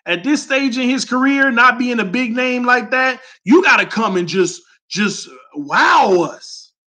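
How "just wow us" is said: emphatic shout. Real, not acted. Demanding more from the backup QB.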